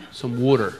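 East Coast accent. Shown as a demonstration. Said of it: "That's why I talk like that".

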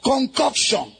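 full-force sermon shout over music; fiery preacher voice; preaching. Real, not acted. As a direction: preach it hard to the crowd.

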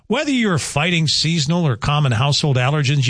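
upbeat sponsor read, slowing on the phone number; radio ad read. Acted. Host reading a live sponsor ad to listeners, upbeat ad voice.

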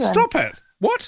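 high-pitched amazed outburst; astonished. Real, not acted. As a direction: burst out in real disbelief. Reacting to caller's surprise revelation.

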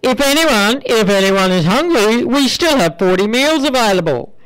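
put-on apologetic announcement in a lilting Irish accent. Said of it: "Her next announcement".

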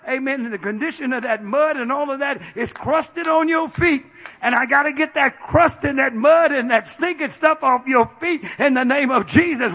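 preacher building to a shout; preaching build. Real, not acted. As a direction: drive it home, building.

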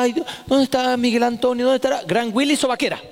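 mother feigning worry, then springing the slipper throw; fake worry. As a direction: act worried, then spring the punchline. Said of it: "Entonces decía".

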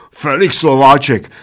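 mildly shouted, incredulous. A narrator's reading. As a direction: cry the name in disbelief. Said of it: "nevěřícně křičel maličký".

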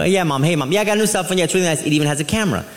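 quick excited chatter, rattled off fast; wife on the phone. Retold or imitated. Wife telling her mom on the phone, chattering fast. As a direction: gush about the new phone in a rush. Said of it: "She go".

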